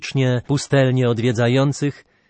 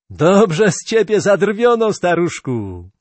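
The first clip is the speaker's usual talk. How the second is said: still laughing; 6 semitones higher than usual. Acted. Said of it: "Mikron począł się śmiać serdecznie".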